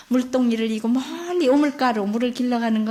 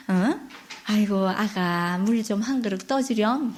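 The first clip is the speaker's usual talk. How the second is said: grandmother voice; 3 semitones lower, 3 dB quieter than usual. Acted. Grandmother asks again.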